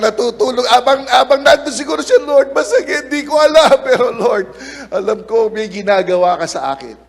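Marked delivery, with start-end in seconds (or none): 2.2-7.0 a mock anguished prayer, louder; pained prayer. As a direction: voice strained and raised, pleading to the Lord. Preacher voices Joseph's pained prayer.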